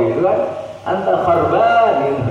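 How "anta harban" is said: slow, higher mock Arab curse; mock angry insult. Teacher repeating the Arab curse, slow mock anger. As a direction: drag out harban as a mock insult. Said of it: "Itu marah luar biasa".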